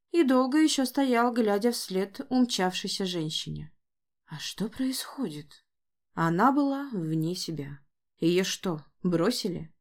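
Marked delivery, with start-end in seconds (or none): 4.3-5.6 bewildered whisper. Acted. Stunned stable boy.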